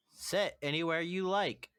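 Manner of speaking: lightly voiced robot host; a hint of a robot greeter. Robot answers guests asking about seating, lightly voiced robot. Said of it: "The robot was gonna respond with".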